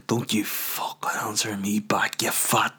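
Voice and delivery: a whispered, slow mock threat; hissed mock threat. The imagined owner hisses back at the caller, whispered and slow. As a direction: hiss it at the caller, slowly. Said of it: "how Missus Tucker gets on the phone".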